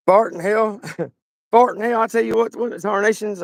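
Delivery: put-on hick Southern accent; exaggerated Southern accent. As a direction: play up the country Southern accent. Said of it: "I'm adding my accent to myself".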